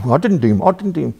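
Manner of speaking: lightly imitated kid's denial, lifting on the repeat; mock childish protest, only slightly put on; protesting schoolkid. Mocking Viv denying it like a schoolkid, lightly childish protest. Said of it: "like a bit kid at school".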